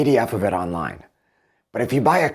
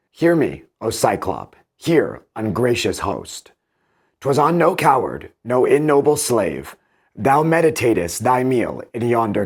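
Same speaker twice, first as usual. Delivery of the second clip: taunting call. Acted. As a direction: hurl it across the sea at him. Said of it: "with taunts the distant giant I accost".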